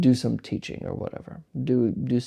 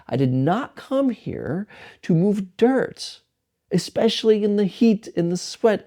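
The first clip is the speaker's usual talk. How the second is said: a higher, mock-furious rant; retold angry rant; 6 semitones higher than usual. Young monk complaining about hauling dirt, mock angry and higher. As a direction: voice the young monk's outburst, pitch climbing, a touch hammed-up. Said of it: "he was very angry".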